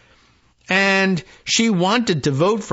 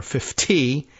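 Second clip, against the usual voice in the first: "fifty" said in a light Minnesotan accent; a touch of Minnesota in "fifty"; mild Minnesota-accented "fifty". Shown as a demonstration. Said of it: "in Minnesotan".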